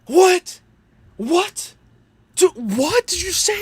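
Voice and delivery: high-pitched incredulous questioning; Clown. Retold or imitated. Mimicking a chatter's shocked reaction, high and incredulous. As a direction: squeak out the questions in mock disbelief. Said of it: "Clown was like".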